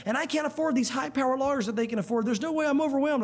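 mildly distressed, run-on complaint; a touch of rising desperation, retold; imitated overwhelmed caller. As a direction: lightly act out someone pleading innocence. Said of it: "and they're saying".

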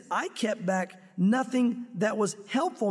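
"I kept back nothing that was helpful" said slowly and deliberately; slow emphasis. Shown as a demonstration. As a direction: spell out each word of the verse. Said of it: "meaning even the hard things".

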